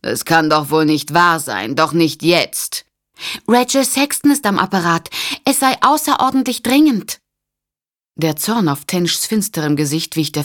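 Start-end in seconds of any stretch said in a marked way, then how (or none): 0.0-2.8 disapproving. Acted. 3.5-7.2 a flustered operator calling to get through the crowd. Acted. Operator voice, high and urgent.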